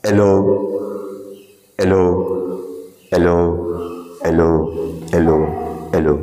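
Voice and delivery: short calls ringing like a microphone; mic-like echo call. Shown as a demonstration. Guide tests the echo, calling hello. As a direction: call out to make the hall boom. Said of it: "same माईकसारखा आवाज करून दाखवतो".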